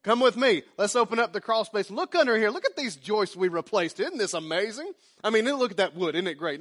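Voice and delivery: mock excited showing off; hammed-up eager homeowner; proud host. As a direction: show off the joists proudly. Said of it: "takes them over and says".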